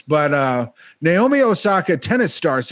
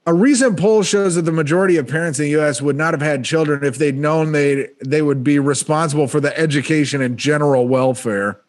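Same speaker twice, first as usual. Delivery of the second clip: brisker, punchier joke read; faster, committed comedic delivery; selling it better. Shown as a demonstration. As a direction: sell the line with more confidence, faster. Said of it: "I'll sell it better".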